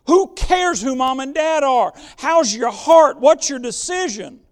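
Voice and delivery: loud, ringing preacher's challenge; preaching shout. Real, not acted. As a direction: call it out to the whole room. Preacher pressing the congregation's hearts.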